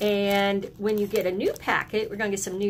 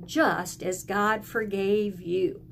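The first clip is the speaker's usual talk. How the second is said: slow recitation; slower than usual. Shown as a demonstration. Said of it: "Can you say that with me?".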